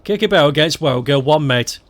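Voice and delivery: broad Stoke slang, "barrel"; Stoke dialect. Shown as a demonstration. Teaching a Stoke phrase in full dialect. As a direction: say it like a local lad. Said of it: "I will kick this ball".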